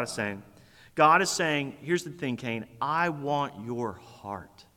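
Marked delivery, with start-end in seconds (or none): 1.8-4.7 slow, soft and lower, heartfelt; slow right down and ask softly for his heart; tender plea. Acted. God pleading with Cain.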